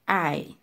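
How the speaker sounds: ay alone, gliding from a to i; diphthong demonstration. Shown as a demonstration. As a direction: repeat ay cleanly for learners. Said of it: "li se ay". (ay pou kont li)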